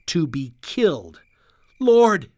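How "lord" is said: higher, louder cry to God. A narrator's reading. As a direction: call out to the Lord in prayer. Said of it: "they cried".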